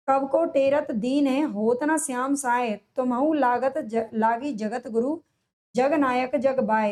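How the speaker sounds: slow, measured reading of a verse; couplet recitation. Acted. Teacher reading a couplet to students, slow recitation. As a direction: read the old couplet out slowly.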